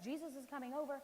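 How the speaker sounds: lightly acted fussing Martha, one item after another; a mild flurry of must-do worries; frazzled hostess. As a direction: run through the list like a harried host. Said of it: "she's running around. She's trying to make the place perfect".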